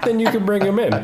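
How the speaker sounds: high, giggling through the words; laughing. Retold or imitated. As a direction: laugh while quoting them. Retelling a funny store exchange.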